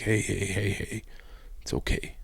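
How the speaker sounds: soft, hushed reassurance; imitating a dad gently calming his crying child; soothing dad.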